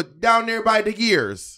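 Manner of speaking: high, drawn-out mock Jamaican accent; slow, hammed-up Jamaican patois; Monet. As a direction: stretch it in a Caribbean lilt. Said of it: "a little bit of Caribbean accent".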